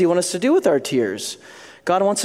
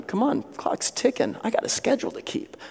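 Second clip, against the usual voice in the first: impatient prayer; 6 semitones higher, 8 dB quieter than usual. Retold or imitated.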